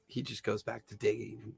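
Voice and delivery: usual speaking voice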